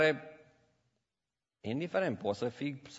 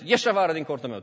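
angry order; 4 semitones higher, 8 dB louder, faster than usual. Retold or imitated. Avram throws the guest out.

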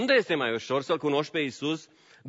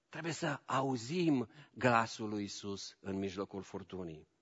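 much softer and lower, slowing; hushed; 7 semitones lower, 9 dB quieter than usual. Acted. Preacher quietly pressing the church, fading away. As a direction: let it fade to a whisper of urgency.

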